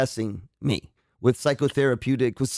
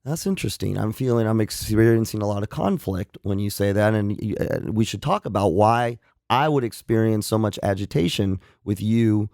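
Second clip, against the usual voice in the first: measured, slightly lowered therapist voice; calm therapist; 2 semitones lower than usual. Acted. Psychologist showing how he answers a provoking patient, calm therapist. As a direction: keep it even and controlled, lightly playing therapist. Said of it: "I should be calm".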